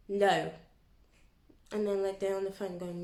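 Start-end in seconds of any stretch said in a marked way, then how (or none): 0.1-0.5 curt no. Retold or imitated. Rude customer answer.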